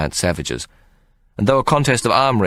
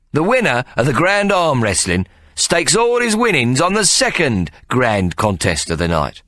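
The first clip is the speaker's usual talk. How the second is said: high, raised ringmaster voice; showman announcement; 7 semitones higher than usual. Acted. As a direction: build it for the crowd. Ikey addresses the crowd.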